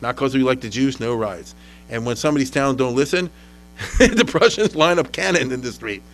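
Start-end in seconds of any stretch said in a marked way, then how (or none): 0.0-1.5 lower, slow, quiet and firm; a hint of a cold officer; stern army order. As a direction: lay down the law calmly but coldly. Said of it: "They say".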